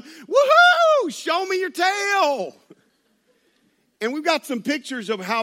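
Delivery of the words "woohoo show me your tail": piercing high whoop, slow hollered drawl; yelled Southern whoop. Retold or imitated. Wife to the whales amid a crowd, excited yell. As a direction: cheer on a whale at full volume. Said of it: "yelling that out".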